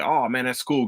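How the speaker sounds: soft, offhand, hiding excitement; playing it cool. Told the show is renewed, a soft, falsely casual reply. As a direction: say it quietly like it's no big deal. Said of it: "didn't wanna show that excitement".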